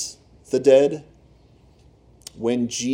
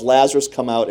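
mock yell; 4 dB louder than usual. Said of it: "Jesus yells".

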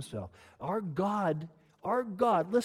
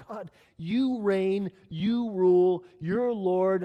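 loud praise prayer; 5 semitones higher, 9 dB louder, much slower than usual. Pretend. Preacher voicing a believer's praise, loud proclaiming. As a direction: call out fully aware to God, loud and slow at first.

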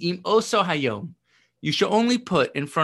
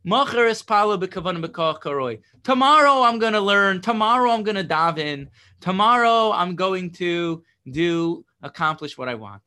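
mock procrastinator; 4 dB louder than usual. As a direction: play the cheerful putter-off promising tomorrow. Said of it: "And you're not gonna say".

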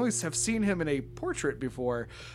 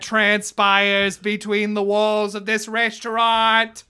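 lightly voiced manager; 4 semitones higher, 5 dB louder, slower than usual. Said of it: "he says".

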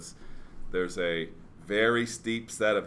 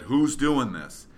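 higher, louder and slow; coach's challenge; 5 semitones higher, 6 dB louder, slower than usual. Retold or imitated. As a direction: lean in and bark the challenge.

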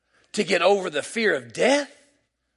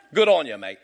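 lower-pitched Australian catchphrase; Australian accent; 5 semitones lower than usual. Shown as a demonstration. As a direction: toss it off like an Australian. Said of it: "I speak Australian".

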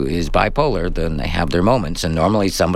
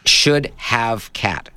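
very slow, deliberate; 2 semitones higher, much slower than usual. Shown as a demonstration. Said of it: "So that's the at symbol".

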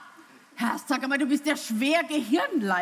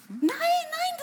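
emphatic no. Acted. Actress pushing poet out.

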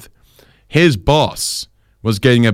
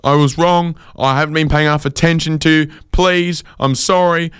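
panicked apology; 9 semitones higher than usual. Retold or imitated. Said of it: "he starts panicking".

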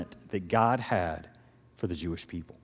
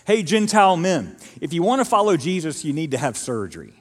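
mock demanding preacher; 3 semitones higher, 3 dB louder than usual. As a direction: hail the Gentiles like a stern teacher. Legalists' demand retold.

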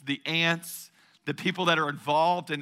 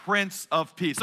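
congregation recitation. Shown as a demonstration. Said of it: "say it with me".

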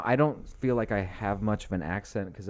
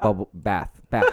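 laughing; 5 dB louder than usual. Real, not acted. Laughing at mixing up roof with bubble bath. Laughing at her own word mix-up.

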